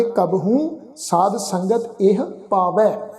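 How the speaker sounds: slow reading with ਇਹ as eh, no final o; correct reading eh. Shown as a demonstration. Teacher modelling the line, ਇਹ without a final o. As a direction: read slowly, closing ਇਹ on a light h. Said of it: "ਇਸ ਦਾ ਪਾਠ ਉਚਾਰਨ ਕਰਾਂਗੇ".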